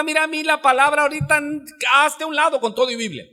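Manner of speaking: fast, high-pitched angry retort; acted irritable outburst; irritated brush-off. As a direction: act out losing patience, words rushing out high. Angry man brushes off a brother.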